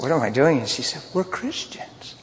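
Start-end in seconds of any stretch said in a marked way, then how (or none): 0.0-0.6 questioning, voice rising at the end; mildly baffled retold comeback; perplexed disbelief. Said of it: "I looked at her perplexed and said". 1.1-2.1 slow, whispery imitation of her; small hushed quoted voice; hushed retold reply. Her line, quiet slow unvoiced.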